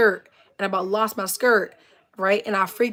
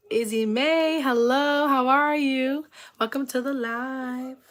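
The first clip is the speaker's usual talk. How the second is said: higher, slow welcoming lilt; sing-song greeting; 4 semitones higher, slower than usual. Real, not acted. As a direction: stretch out a friendly hello to a newcomer. Greets viewer joining the live.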